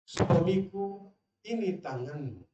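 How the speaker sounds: slow, drawn-out "Suamiku"; a hint of a pleading wife; gentle wife. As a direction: stretch the plea out tenderly. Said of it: "Bisa dibayangin?".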